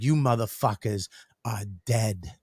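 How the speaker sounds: low mock menace; understated, re-enacted death threat; retold threat.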